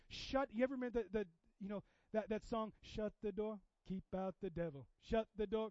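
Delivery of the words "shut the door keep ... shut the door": lightly imitated African accent; a hint of an African accent. Quoting a song he loves, light African accent. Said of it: "that's a very African song".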